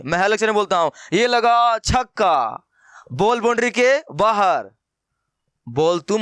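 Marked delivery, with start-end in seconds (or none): 1.1-4.7 cricket commentator call. Pretend. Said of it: "पता है क्या आवाज़ आएगी?".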